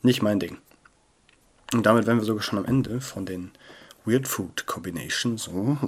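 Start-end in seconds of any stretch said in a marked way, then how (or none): 4.0-5.8 slow, softened ASMR delivery; ASMR-Stimme. Real, not acted. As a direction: draw it out softly, ASMR-style. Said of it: "Ich komm schon voll in dieses A S M R-Fieber rein". (langsam und leise im ASMR-Stil)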